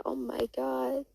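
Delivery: high, slow, hushed amazement; acted awe, drawn out and high; astonished. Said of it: "she was astonished".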